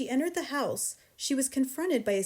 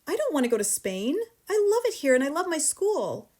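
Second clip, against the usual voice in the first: put-on rising, louder child's protest; protesting cry; 6 semitones higher, 6 dB louder than usual. A narrator's reading. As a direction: plead against leaving.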